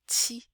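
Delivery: "Ti" with plain dental t, no chi; crisp unaspirated "Ti"; French model. Shown as a demonstration. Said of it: "olha só".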